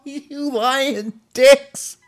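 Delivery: squealing high through laughter, very slow; laughing squeal. Real, not acted. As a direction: quote it while cracking up. Repeating clip line, laughing.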